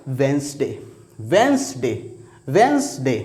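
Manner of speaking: वेंसडे said three times, d silent; drill repetition. Shown as a demonstration. Teacher drills वेंसडे for the class to memorize. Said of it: "ये क्या है?".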